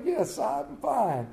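hammed-up polite smile while hurting; forced cheer. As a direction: smile through the pain. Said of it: "I smile through the pain".

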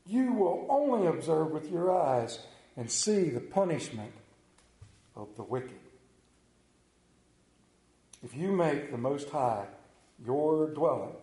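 scripture reading. Acted. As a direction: read the psalm reverently to the congregation. Reads Psalm 91 aloud.

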